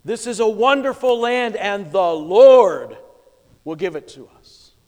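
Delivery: defiant declaration. Retold or imitated.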